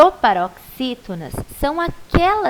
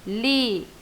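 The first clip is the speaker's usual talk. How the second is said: "Líquida" split into three separate syllables, lí, qui, da, with long pauses; 5 dB quieter than usual. Shown as a demonstration. Teacher counting mouth openings with pupils, "Líquida" said syllable by syllable. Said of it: "quantas vezes a gente abre a boquinha".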